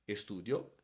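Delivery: "estudio" stressed on the u, with a quick unstressed -dio. Shown as a demonstration. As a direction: keep the accent off the i of "estudio". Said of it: "simplemente es la pronuncia". ("estudio" con acento en la u, no en la i)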